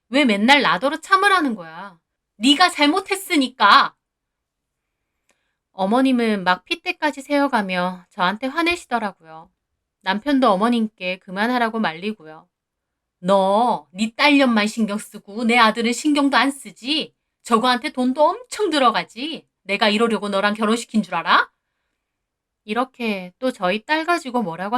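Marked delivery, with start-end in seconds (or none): 0.1-4.0 building to a loud, high cry; angry outburst. Acted. Wife and mother-in-law quarreling, rising to an angry shout. 13.2-21.5 mother-in-law's tirade. Acted. Mother-in-law berating daughter-in-law.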